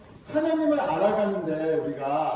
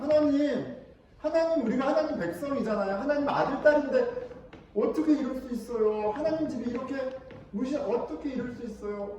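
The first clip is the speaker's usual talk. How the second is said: high-pitched pleading protest; mock wailing reproach, pitched up but not shouted; acted resentful lament; 5 semitones higher than usual. Psalmist complaining to God, high resentful plea. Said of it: "막 원망하고 울부짖고 있어요".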